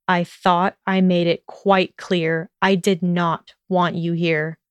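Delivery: slow, smooth, menacing calm; dangerously low and smooth. Acted. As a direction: keep it low, smooth and even. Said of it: "with a dangerously low and smooth voice".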